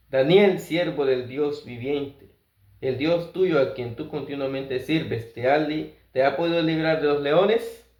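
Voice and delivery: a king anxiously calling into the lions' den, only mildly sad; a touch of sad calling. Acted. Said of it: "llamó a gritos a Daniel con voz triste".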